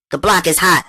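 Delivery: high, loud street warning; a hint of gossipy friend; Natalie's warning. A narrator's reading. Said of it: "That's how Natalie put it".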